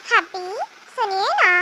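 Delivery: slow, sugary plea to her husband; butter him up slowly before asking; sweet coaxing. Acted. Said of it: "इतने प्यार से बोल रही है".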